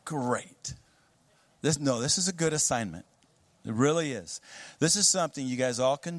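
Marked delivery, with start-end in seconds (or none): 0.0-0.7 unenthused. Pretend. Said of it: "You're like".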